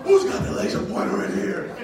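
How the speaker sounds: loud angry teacher demanding answers; retold yell. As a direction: bark it at the class. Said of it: "And she goes".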